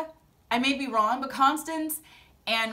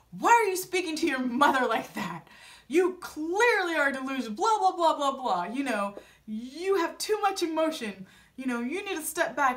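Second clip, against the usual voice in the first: higher, emphatic mock telling-off; retold scolding; 3 semitones higher than usual. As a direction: imitate an indignant in-law's lecture. Acting out brother-in-law's scolding.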